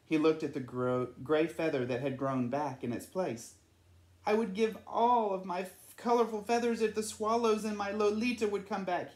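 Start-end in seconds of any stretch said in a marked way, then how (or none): 4.2-9.1 Nacho voice. Acted. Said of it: "he thought".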